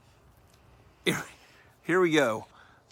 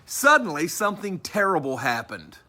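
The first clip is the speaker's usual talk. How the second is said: dramatic story narration; 5 semitones higher, 4 dB louder than usual. A narrator's reading. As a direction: hit the opening high and loud. Reads story aloud.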